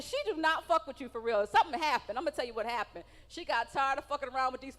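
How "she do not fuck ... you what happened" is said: ordinary delivery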